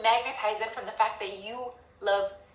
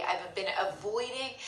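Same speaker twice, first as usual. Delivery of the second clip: whispered confession; 4 dB quieter than usual. Pretend. Confessing frustration to oneself.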